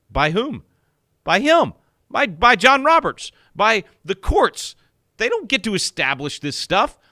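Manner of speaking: a critic fires back at the Chief Justice, loud and scornful; indignant outburst. Real, not acted. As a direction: fire back at the judge with rising scorn. Indignant rebuttal of the judge.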